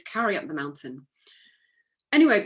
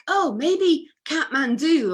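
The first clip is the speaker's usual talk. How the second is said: slow, higher, louder mock Canadian guess; hammed-up Canadian accent; bad Canadian accent; 8 semitones higher, 6 dB louder, slower than usual. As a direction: badly imitate a Canadian guessing hopefully, drawn out. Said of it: "I can't do the Canadian accent".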